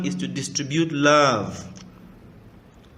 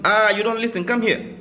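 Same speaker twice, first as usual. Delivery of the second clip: a mother's scolding yell, higher and louder; mock shout; 9 semitones higher, 5 dB louder than usual. A preacher imitates a mother shouting at her wounded child. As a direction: call the child over like a cross mother. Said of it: "she can be shouting".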